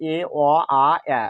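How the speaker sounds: "এ, অ, আ, এ" as separate vowels: ay, aw, aa, ae; four vowel sounds. Shown as a demonstration. Teacher recapping the four sounds of A, "এ, অ, আ, এ" as distinct vowels. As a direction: sound out "এ, অ, আ, এ" one by one, last as in bat. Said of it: "উচ্চারণ শিখলাম".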